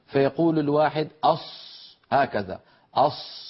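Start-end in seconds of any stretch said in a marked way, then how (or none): 1.2-1.6 "أص" with lips pushed forward and rounded; lip-rounded Sad. Shown as a demonstration. Teacher mimicking a common reciters' fault, lip-rounded "أص". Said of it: "يستعملون الشفتين عند نطقهم لحرف الصاد". 2.9-3.4 "أص" with lips pushed forward and rounded; lip-rounded Sad. Shown as a demonstration. Teacher mimicking a common reciters' fault, lip-rounded "أص". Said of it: "ويزم شفتيه إلى الأمام ويضمهما".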